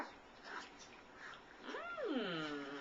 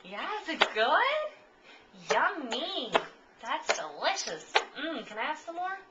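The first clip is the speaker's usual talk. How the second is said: higher, louder, slow sing-song coo; 4 semitones higher, 5 dB louder than usual. Real, not acted. Cooing at baby while feeding.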